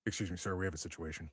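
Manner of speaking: understated official report. Acted. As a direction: interrupt the boss as a lightly voiced guard. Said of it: "a deeper voice".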